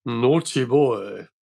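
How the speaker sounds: slow, drawn-out teasing voice, lightly imitated; Roger Moore. Roger Moore catching a colleague kissing, slow mock reproach. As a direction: draw it out slowly as a mild tongue-in-cheek tease. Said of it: "I heard this voice saying".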